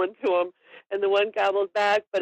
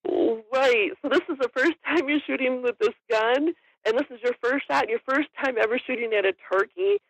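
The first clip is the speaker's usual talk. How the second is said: higher, retold incredulous questioning; mild disbelief; 5 semitones higher than usual. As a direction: check it with mild astonishment. Retold disbelief at a first-time shot.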